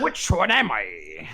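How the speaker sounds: slow puzzled question; confused. Acted. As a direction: ask it slowly, unsure. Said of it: "if you read the line a certain way".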